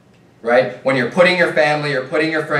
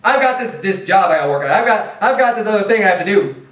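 put-on whiny excuse-making child; 4 semitones higher than usual. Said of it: "this type of an attitude".

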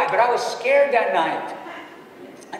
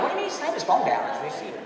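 lightly voiced baffled youngster, quick and higher; mock puzzlement; 5 semitones higher, 3 dB quieter, much faster than usual. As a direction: rattle off a puzzled question, imitating confused listeners. Voicing puzzled young listeners.

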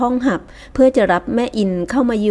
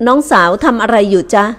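louder, gentle polite question with rising end; polite courtly address; 5 dB louder than usual. Acted. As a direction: woo her with refined courtesy. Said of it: "เอื้อนวาจาสุภาพ". (ถามอย่างสุภาพนุ่มนวล)

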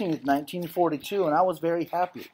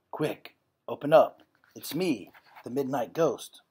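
low voice; 3 semitones lower than usual. Acted. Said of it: "said in a low voice".

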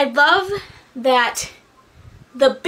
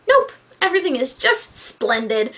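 sarcastic. Acted. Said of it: "the sarcasm".

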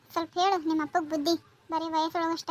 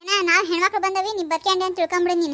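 loud furious warning; angry threat; 5 dB louder than usual. Acted. Neighbour threatening the drunk father-in-law, loud and angry. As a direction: lay into him with loud threats.

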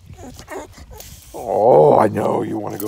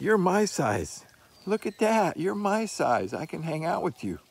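voicing the puppy; 7 semitones higher than usual. Essie the puppy finding a dog her size, high voice. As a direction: squeak it out like a tiny puppy. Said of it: "Essie's like".

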